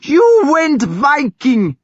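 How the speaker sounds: slow, high, loud accusing scream. A narrator's reading. Thyra screaming at her brother. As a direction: scream it at him. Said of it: "she screamed at him".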